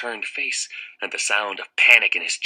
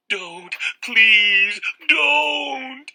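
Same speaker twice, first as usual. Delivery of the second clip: high, loud panicked begging; terrified sobbing plea; 6 dB louder, much slower than usual. Acted. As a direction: plead in pure terror. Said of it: "Wendell was sobbing as he ran".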